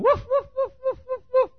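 loud, very high yapping woofs. Acted. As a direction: bark frantically like a tiny dog. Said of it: "going up down that fence going".

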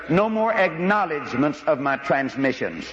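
slow, formal controller phrasing; polite slow radio-speak; polite radio phrase. Retold or imitated. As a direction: read it like a tower operator politely. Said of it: "they use the nice term".

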